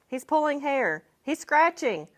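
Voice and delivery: high, loud complaint mid-fight; frantic cry. A narrator's reading. A boy in the brawl crying out in a loud panic. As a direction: yell out in a panic.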